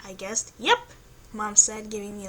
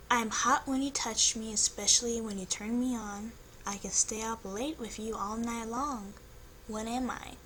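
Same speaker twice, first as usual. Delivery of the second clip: seductive voice; 3 dB quieter than usual. Acted. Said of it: "using a really good seductive voice".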